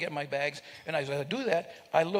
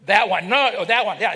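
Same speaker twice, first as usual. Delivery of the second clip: laughing; 4 semitones higher, 10 dB louder than usual. Real, not acted. Reacting to audience member's look.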